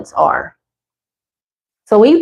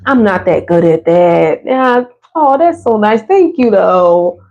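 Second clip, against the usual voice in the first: shy, modest deflecting of a compliment; bashful brush-off; slower than usual. Retold or imitated. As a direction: wave off the praise, a little embarrassed. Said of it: "We're like".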